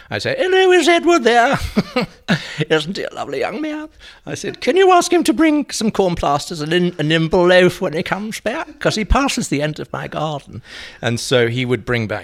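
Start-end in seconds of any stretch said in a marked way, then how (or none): 0.4-3.9 high, loud put-on voice of an old lady; Barty voice. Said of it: "phoning up initially as Barty". 4.6-10.6 high, loud put-on voice of an old lady; Barty voice. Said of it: "phoning up initially as Barty".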